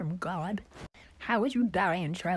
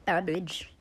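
a sudden whispered aside. Acted. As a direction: breathe the word like a secret. Listing egg roll contents.

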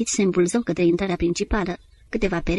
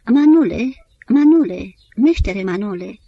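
reciting; 2 semitones higher, 7 dB louder, slower than usual. A narrator's reading. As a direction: recite it like a ballad refrain. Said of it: "apoi începu să recite".

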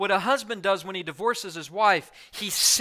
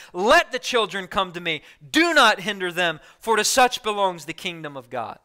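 loud, forceful staccato rebuke; angry rebuke; 4 dB louder than usual. Retold or imitated. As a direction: bark each command like a roused lion. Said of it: "with the voice of a lion aroused with anger".

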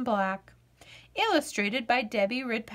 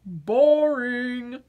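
bored potato; 3 dB louder than usual. Acted. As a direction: sound like a vegetable with no fun left. Potato dismisses jumping.

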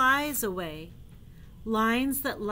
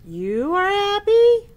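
surprised question; 10 semitones higher, 12 dB louder than usual. Acted. Gerald surprised in book.

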